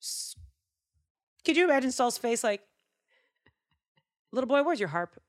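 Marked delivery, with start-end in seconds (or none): 4.3-5.2 mocking king. Saul voiced mocking.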